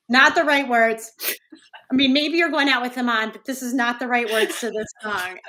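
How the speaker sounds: laughing through a scolding correction. Retold or imitated. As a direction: correct them while cracking up. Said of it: "And I'm like".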